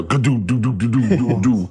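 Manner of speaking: playful vocal "doo-doo" sputter; imitated sputtering noise. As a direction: mimic it with a run of bouncy syllables. Imitates noise of running on fumes.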